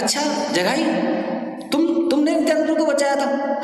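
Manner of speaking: high, lilting questioning voice; Mahaprabhu asking. Retold or imitated. Mahaprabhu questioning Jagai about saving Nityananda, high and lilting. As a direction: ask it up high, fondly probing. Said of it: "महाप्रभु बोलते हैं".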